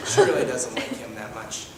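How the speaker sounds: deadpan son. Acted. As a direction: mumble it dryly. Plays a deadpan adopted son.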